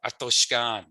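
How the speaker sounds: Atoshkan with half a K, half a G; Atoshkan, middle sound between K and G. Shown as a demonstration. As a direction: blur the K toward a G in Atoshkan. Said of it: "it'll be in the middle".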